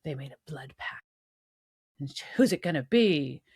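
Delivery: stern Reaper. Retold or imitated. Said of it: "And Billy's like".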